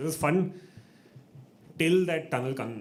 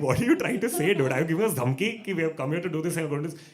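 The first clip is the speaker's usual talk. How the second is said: retold challenge; 5 semitones higher, 5 dB louder, faster than usual. Dad challenges the vice principal.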